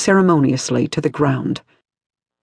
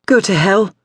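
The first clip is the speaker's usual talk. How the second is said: loud, higher, defiant spit of words; spat; 5 semitones higher, 4 dB louder than usual. A narrator's reading. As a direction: hurl it at your captor. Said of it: "she spat".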